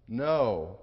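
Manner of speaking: put-on stubborn kid saying no; mock child refusal.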